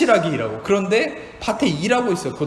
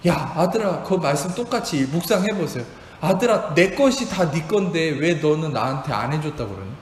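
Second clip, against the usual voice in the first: gentle fatherly reply; 2 semitones lower than usual. Retold or imitated. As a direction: answer like a kind father. God answering his son gently.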